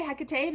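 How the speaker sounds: "Hecate" said the speaker's own American way; American pronunciation. Shown as a demonstration. Lecturer giving her own American way of saying Hecate, American pronunciation. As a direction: say "Hecate" in three syllables, American style. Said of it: "because I'm an American".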